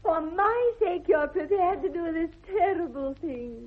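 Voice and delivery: a theatrical, tender solemnity; lofty romantic gravity; solemn tenderness. Acted. Mock-solemn lover's question.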